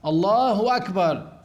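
slow الله أكبر read as "اللهو أكبر"; wall-writing error read aloud; wrong added waw. Shown as a demonstration. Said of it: "يحط واو".

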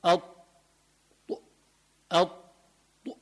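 الط- held slowly with the tongue pressed up, heavy ط; emphatic ط demo. Shown as a demonstration. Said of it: "فبقول".

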